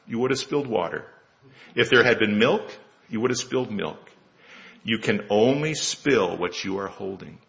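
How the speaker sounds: gentle. Acted. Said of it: "says gently".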